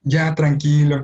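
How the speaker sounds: lightly voiced indulgent mother coaxing; gentle there-there, playing the permissive mother; permissive soothing mom. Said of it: "una mami muy permisiva".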